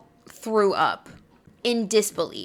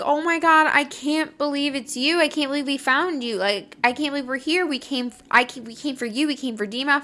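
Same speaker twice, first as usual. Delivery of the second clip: retold starstruck excitement; 4 semitones higher, faster than usual. Re-enacts meeting her idol.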